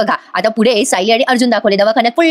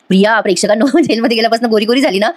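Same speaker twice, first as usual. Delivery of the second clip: laughing. Real, not acted. Teasing remark about a character.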